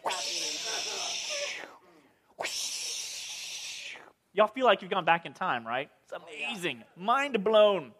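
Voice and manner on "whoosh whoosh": breathy whoosh, no voice; whooshing sound effect. Pretend. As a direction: blow out a long whoosh like wind. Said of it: "Sound effects not included".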